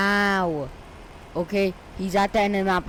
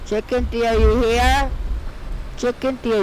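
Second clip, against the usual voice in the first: calling out; 4 semitones higher, 3 dB louder than usual. Real, not acted. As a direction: shout for a lost buddy. Calling out for lost buddy.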